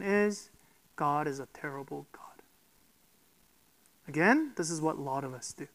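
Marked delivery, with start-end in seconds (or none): 1.0-2.4 hushed, breathy whisper of a bitter conclusion; whispered accusation against God; whispered verdict. Acted. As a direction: whisper it like a dark secret. Voicing the sufferer's bitter conclusion.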